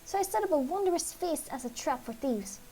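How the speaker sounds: a hint of a theatrical mouse; fussy mouse voice. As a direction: play the dramatic little mouse begging heroes for help. Game master voices the mouse.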